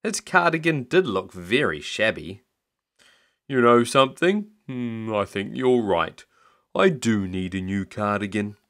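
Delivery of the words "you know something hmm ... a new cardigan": a hint of a pondering old man; lightly voiced Grandpa. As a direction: concede thoughtfully as a mild Grandpa.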